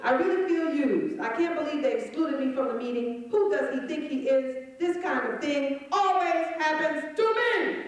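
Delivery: mock-whine like a put-upon employee; whiny self-pity. Comic mocking a put-upon worker, whining.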